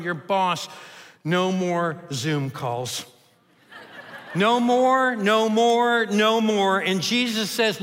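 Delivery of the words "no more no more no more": loud, higher, joyful shout with a laugh; rising exultant cry. Real, not acted. Preacher to congregation ending his list, exultant shout. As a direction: let the list burst out in triumph.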